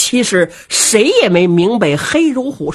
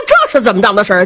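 quick, louder puzzled question; a baffled warrior asks himself, fast and puzzled; 4 dB louder, much faster than usual. Acted. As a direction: blurt the question out fast in confusion. Baffled warrior thinking aloud.

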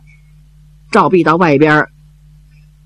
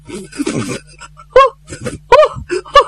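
forced sobbing; much faster than usual. Acted. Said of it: "把嘴一撇".

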